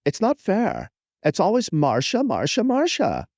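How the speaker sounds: high-pitched, aggrieved sibling outburst; hammed-up, high-pitched sulk; whiny jealous complaint. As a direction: wail it like a slighted middle child. Mimics Jan Brady's jealous complaint.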